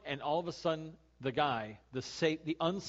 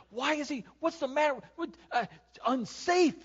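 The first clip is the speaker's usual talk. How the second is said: higher, louder mock anger at the driver; mock road rage; 11 semitones higher, 5 dB louder than usual. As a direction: fume at the guy who cut you off. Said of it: "I'm like".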